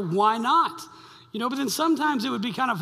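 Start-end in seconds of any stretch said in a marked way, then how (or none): 0.0-0.8 mock shout from the pew. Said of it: "And this guy would go".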